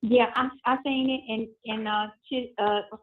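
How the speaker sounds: tinny phone call audio; payphone call. Real, not acted. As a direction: voices over a prison phone line. Recorded prison phone call played.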